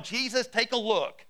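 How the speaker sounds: exasperated prayer. Acted. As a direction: call Jesus to account, mock-indignant. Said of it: "opened up your Bible going".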